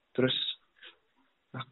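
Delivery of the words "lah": put-on higher, pleading girlfriend's retort. Girlfriend snapping back at her boyfriend, higher. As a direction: turn it back on him, higher. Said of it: "cowoknya bilang gitu".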